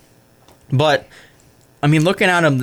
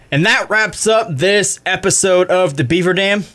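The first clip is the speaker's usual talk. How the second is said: radio sign-off. Acted. Show sign-off.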